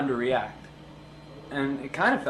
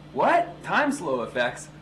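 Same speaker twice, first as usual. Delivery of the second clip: surprised; 3 semitones higher than usual. Acted. Mock surprised outburst.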